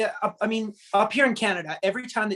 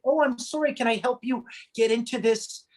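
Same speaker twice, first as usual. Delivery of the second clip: lightly voiced, higher, eager helpful stranger; a hint of a sweet Canadian offering help; overly polite Canadian; 5 semitones higher than usual. Canadian stranger helping a mom with a stroller, lightly sweet and polite. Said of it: "they would say".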